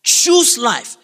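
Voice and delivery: forceful preacher's shout; emphatic command. Real, not acted. Preacher repeats the command to congregation, emphatic. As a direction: punch out both words.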